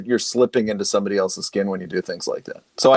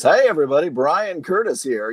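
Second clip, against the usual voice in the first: honeyed announcer voice; 4 semitones higher than usual. Shown as a demonstration. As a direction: slip into your polished on-air voice. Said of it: "honeyed announcer voice".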